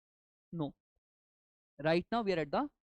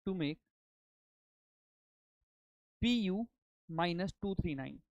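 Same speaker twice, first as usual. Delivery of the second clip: dictating. Shown as a demonstration. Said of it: "let me dictate now".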